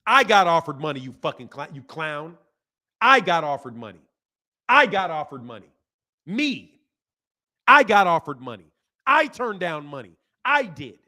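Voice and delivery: real indignant insistence, punching each opening word; flipping out. Real, not acted. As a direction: snap back at a doubter, hitting "I" hard. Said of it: "Because I flipped at you".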